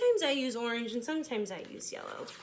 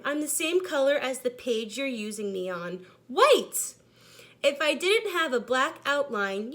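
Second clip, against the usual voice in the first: sad white crayon; 7 dB louder than usual. Acted. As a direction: read the letter with a mild sense of emptiness.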